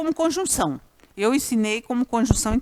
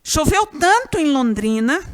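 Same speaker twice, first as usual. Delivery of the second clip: "tanto" loud and high in the example; stress on TANTO; 4 semitones higher, 5 dB louder than usual. Shown as a demonstration. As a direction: hit "tanto" hard to point it out. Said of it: "Ó o tanto".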